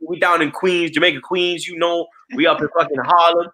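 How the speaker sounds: lightly put-on New York accent; New Yorker accent. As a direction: play at being a New York local. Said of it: "talking like a New Yorker".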